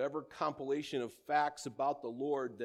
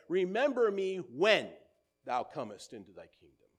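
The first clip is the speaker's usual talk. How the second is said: pleading; 8 dB louder than usual. Acted. Thief's plea retold.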